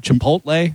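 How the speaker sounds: "Chipotle" as chi-POHT-lay; hard T. Shown as a demonstration. Host checking a colleague's pronunciation, hard T. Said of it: "you're hitting the T hard".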